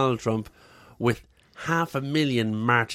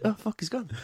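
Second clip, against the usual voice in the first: mock shock; 6 semitones higher, 6 dB quieter than usual. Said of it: "you'll find".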